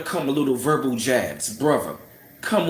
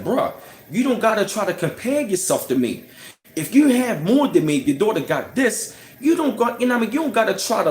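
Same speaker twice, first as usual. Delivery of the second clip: heated retort; 4 semitones higher than usual. Retold or imitated. Imagined retort to rude coworker.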